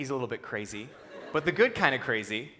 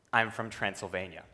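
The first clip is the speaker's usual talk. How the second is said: lightly put-on Transylvanian accent, lower pitch; thick Romanian accent; 4 semitones lower than usual. Burly coach tells blank-faced student where he's from, Romanian accent. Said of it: "he says in this very thick accent".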